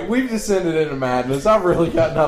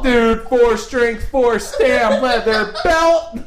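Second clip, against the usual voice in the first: loud mock announcement; 3 semitones higher, 5 dB louder, slower than usual. Mocking game item loudly.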